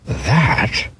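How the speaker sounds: mild doubtful doctor query; doctor scoffs at the bunny, lightly voiced; doctor's surprise. A narrator's reading. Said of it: "said the doctor".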